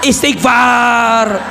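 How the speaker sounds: scolding, accusing tone; mock scolding a suffering friend; harsh rebuke. Harsh rebuke of someone being tested.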